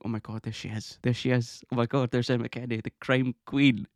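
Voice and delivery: mildly starstruck retelling; excited. Retold or imitated. Fan spotting her idol from the queue, excited.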